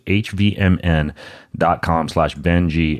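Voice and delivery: slow, spelled-out URL repeat; slow and clear. Shown as a demonstration. Host repeating the sponsor URL for listeners, slow and deliberate. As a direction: spell out the web address slowly so listeners catch it. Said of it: "repeats the URL slowly".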